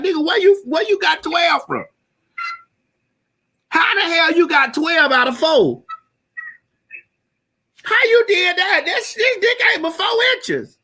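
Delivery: shrieking in disbelief at a tiny reveal; incredulous mock shout. Woman shrieking at her lover's small size.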